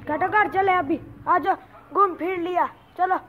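calling the dog home loudly. Real, not acted. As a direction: call her in across the yard.

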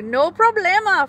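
high squeaky little voice; a small high squeak; froggy squeaks. Acted. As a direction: squeak it into the jaguar's ear. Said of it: "Froggy squeaks".

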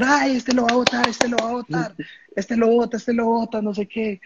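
high taunting mock chant; mocking rival fans. Rival players jeering the kicker, high mocking taunt. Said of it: "los pelados de Tuluá empezaron a gritar".

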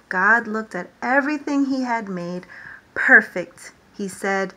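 lively storytime reading, God's hellos called out; animated picture-book read-aloud; reading to children. Acted. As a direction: read it to a class of little ones. Reads creation story to children.

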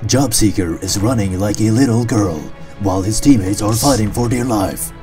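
sports-documentary voiceover; documentary narrator. Acted. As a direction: narrate the fight dramatically.

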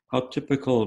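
a touch of exasperated exclaim. Retold or imitated. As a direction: toss it off with mild exasperation. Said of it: "my wife exclaims".

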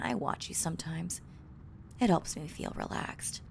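hushed confessional whisper. Acted. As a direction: whisper the secret.

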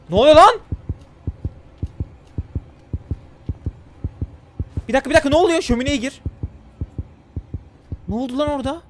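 startled and loud; shocked, what is happening; alarmed. Real, not acted. Sudden alarm at events.

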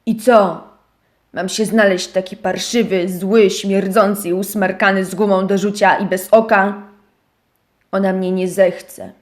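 niżej, przygnębiony; mów nisko, bez nadziei; zrezygnowany miś. Acted. (miś skarży się owieczce, niżej)

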